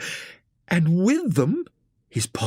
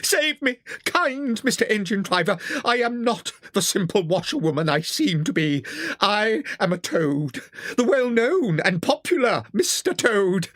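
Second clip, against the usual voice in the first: higher, desperate plea; pleading cry; 8 semitones higher than usual. A narrator's reading. Toad begs the engine driver to save him, higher desperate plea. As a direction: beg for rescue on your knees. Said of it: "Toad fell on his knees ... and cried".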